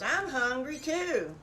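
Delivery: high, loud little piglet begging for breakfast; eager piglet calling Mama; excited piglet. Acted. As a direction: squeal it like a hungry little pig. Second piglet voiced.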